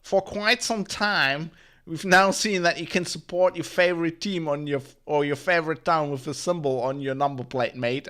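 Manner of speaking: rusty mock Australian accent for a spokeswoman; attempted Australian accent. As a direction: have a rough go at an Australian accent. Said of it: "I can't do an Australian accent".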